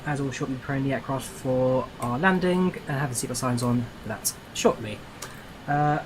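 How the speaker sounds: pilot's PA to the passengers; calm captain announcing descent; plane cabin announcement. Shown as a demonstration. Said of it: "one of the worst announcements I've ever made".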